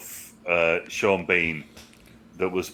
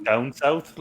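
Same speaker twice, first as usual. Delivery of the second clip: West Country accent; 7 semitones higher than usual. Shown as a demonstration. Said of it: "West Country".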